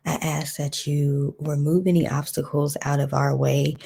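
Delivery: earnest spoken prayer. Acted. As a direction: pray it out steadily.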